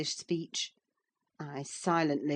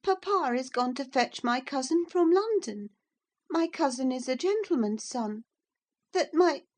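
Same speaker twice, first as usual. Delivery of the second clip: near tears; 9 semitones higher, 5 dB louder than usual. A narrator's reading. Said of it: "she stopped and wept outright".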